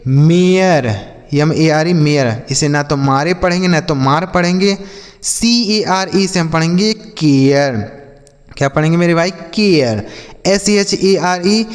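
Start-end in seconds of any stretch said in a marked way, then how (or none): 0.1-0.9 मेयर said louder and firmly as may-er; the teacher models मेयर louder for children; clear model word. Shown as a demonstration. Teacher to pupils, models मेयर loudly and clearly. 10.5-11.6 letters एस एच ए आर ई spelled very slowly one by one; slow spelling out. Shown as a demonstration. Teacher spells एस एच ए आर ई slowly for pupils. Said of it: "इसे हम पढ़ेंगे शेयर".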